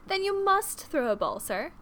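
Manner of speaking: put-on high, excited girlish plea; eager exclamation; exclaiming. A narrator's reading. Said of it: "exclaimed Lydia".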